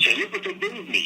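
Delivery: high proud dad voice; imitating dad. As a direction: show off the gift like his father. Dad showing off free record.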